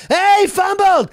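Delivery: high, loud, drawn-out call; mock shout. Cheater grabbing the ball from him, imitated shout. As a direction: holler it like the cheating player. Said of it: "He's like".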